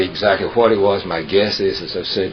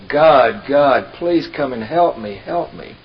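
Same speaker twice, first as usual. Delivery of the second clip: desperate high cry for help; 7 semitones higher, slower than usual. Retold or imitated. Man clinging to tree cries out to God. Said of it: "he cries out".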